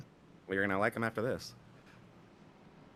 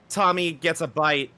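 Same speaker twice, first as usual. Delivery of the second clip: higher, slow announcement; emphatic crash call; 4 semitones higher, 4 dB louder, slower than usual. Real, not acted. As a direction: draw the call out with force. Crash call, then quiet repeat.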